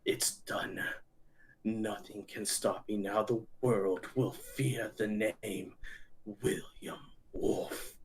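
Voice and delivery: slow, quiet, half-whispered threat; slow, hushed villain voice; menacing villain. Acted. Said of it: "and he says".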